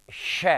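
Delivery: श said alone as a long hush; sibilant sound demo. Shown as a demonstration. Teacher quizzing students on three sibilants, demonstrating श. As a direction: isolate श with a strong hiss of air. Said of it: "इसको क्या बोलेंगे".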